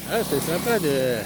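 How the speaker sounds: put-on nice voice; mock friendly greeting. Shown as a demonstration. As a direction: act overly friendly. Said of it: "c'est un exemple, je le fais mal".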